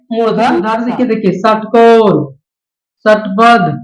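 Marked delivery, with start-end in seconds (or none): 1.3-2.2 षटकोण drawn out with a retroflex first sound. Shown as a demonstration. Teacher giving a murdhanya sa example, slow retroflex sh in षटकोण. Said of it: "मुद्रा से होता है". 3.0-3.7 षटबद्ध as a model word opened with retroflex sh. Shown as a demonstration. Teacher giving a murdhanya sa example, careful retroflex sh in षटबद्ध. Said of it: "मुद्रा से होता है".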